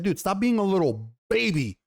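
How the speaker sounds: lightly exaggerated telling-off; mock scolding. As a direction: imitate a blunt scolding, leaning on the last word. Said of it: "she doesn't say it like that".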